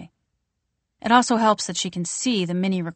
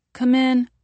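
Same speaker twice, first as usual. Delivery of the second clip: muffled through a closed door; 6 semitones higher, 6 dB louder than usual. Acted. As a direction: call out from behind a door. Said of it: "a muffled voice says".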